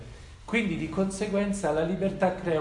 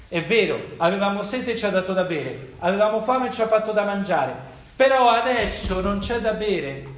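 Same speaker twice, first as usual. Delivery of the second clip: building louder and higher as the grievance grows; mock grumbling complaint; 6 semitones higher, 6 dB louder than usual. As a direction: voice the thirsty people pushing their case, rising. Voicing the people's grumbling complaint.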